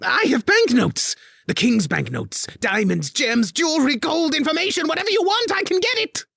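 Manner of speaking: high, loud frantic begging; panicked plea. A narrator's reading. Spy master begs Elise, panicked high plea. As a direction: beg for your life.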